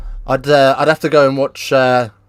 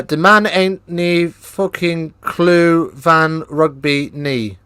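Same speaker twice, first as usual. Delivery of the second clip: slow, put-on Afrikaans accent reading a comment; reading a chat line in a hammed-up Afrikaans accent; mock Afrikaans accent; 2 semitones higher, much slower than usual. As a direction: drag out the words in a shaky Afrikaans accent. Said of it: "Are you Scottish?".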